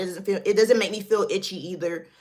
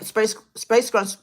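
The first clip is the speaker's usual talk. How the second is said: tongue-tied stumble; 3 semitones higher, 4 dB louder, slower than usual. Real, not acted. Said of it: "tongue twister 'cause I'm talking fast".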